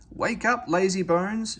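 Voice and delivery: put-on high, sharp scolding girl; severe scolding. A narrator's reading. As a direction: tell him off firmly. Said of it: "she said severely".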